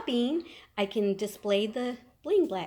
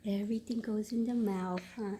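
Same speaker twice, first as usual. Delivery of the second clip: whisper; 10 dB quieter than usual. Real, not acted. Cooing to baby.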